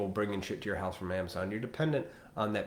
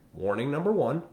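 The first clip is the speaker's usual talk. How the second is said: usual speaking voice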